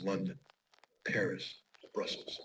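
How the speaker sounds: whispered city names; grim unvoiced whisper; hushed. Real, not acted. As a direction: let the names fall to a whisper. Grim list of target cities.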